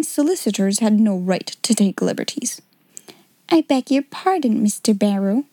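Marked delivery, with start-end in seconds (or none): 3.5-5.4 stiffly offended. Acted. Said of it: "she said stiffly".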